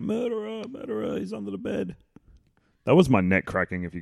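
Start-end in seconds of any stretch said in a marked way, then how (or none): 0.0-2.0 high-pitched imitating yell; mock yell. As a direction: lightly mimic her frantic yelling. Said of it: "where she's yelling out".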